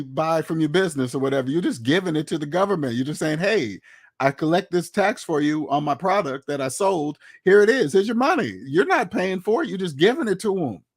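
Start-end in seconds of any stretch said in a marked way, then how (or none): 3.4-8.6 mock handover. Business owner handing over tax.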